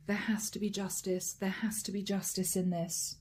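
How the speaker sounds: breathy whispered inner thought. Acted. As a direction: whisper it to yourself, intent.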